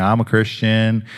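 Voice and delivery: slow, a touch of a showy churchy tone on "I'm a Christian"; mock preachy pronouncement. Pastor mocking the odd way believers approach strangers, slow and preachy. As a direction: lightly ham up the weird evangelist. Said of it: "I didn't do any of that stuff".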